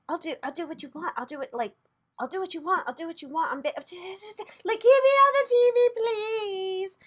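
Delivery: high, pleading, pretend-desperate voice; begging. Tarot reader voicing Cuomo begging to stay on TV, high pleading. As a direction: beg to stay on air, voice rising. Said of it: "he's, like, begging".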